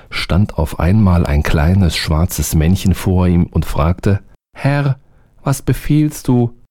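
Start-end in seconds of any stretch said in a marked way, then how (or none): 4.5-6.6 high, small servant voice; eager little servant, high; little black man. A narrator's reading. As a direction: pitch up for the tiny obedient helper.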